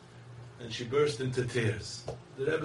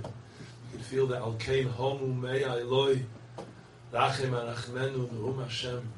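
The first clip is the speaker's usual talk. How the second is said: ordinary delivery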